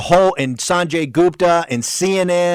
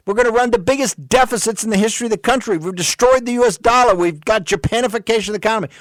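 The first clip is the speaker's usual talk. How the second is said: higher, faster, building outrage; heated rant; 5 semitones higher than usual. Real, not acted. Host ranting to viewers about deficits, heated and higher. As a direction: rattle it off, rising in anger.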